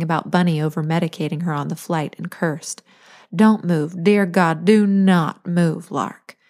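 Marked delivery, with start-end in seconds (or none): 3.3-5.9 firm, slow insistence; adamant. Acted. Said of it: "Lil instructed adamantly". 5.9-6.4 Lark dropped low and soft; quiet firm name. Acted. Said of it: "Lil instructed adamantly".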